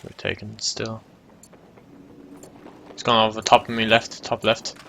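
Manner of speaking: normal talking voice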